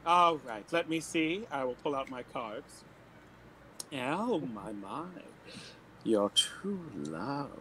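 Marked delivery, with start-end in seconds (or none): 3.9-7.5 low, drawn-out pronouncement; hammed-up seer savouring each word; mystic fortune teller. Fortune teller reading cards for a lovelorn client, mystic drawl.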